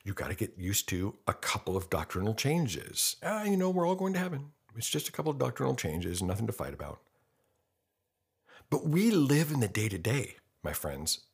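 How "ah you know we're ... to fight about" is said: high-pitched breezy brush-off, settling down by the end; dismissive mock reassurance. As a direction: imitate someone waving the problem away in a higher voice. Voices church people shrugging off differences.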